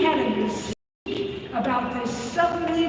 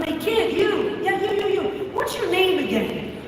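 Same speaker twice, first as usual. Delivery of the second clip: higher called-out shout down the pool; coach yelling; 5 semitones higher than usual. Retold or imitated. Swim coach calls to a kid in the pool, mock yell. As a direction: call up to a kid in the lane. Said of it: "and he yelled down".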